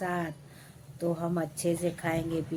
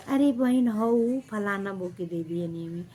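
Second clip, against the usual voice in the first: mock evasive neighbour. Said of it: "मैं पूछती हूँ किसको".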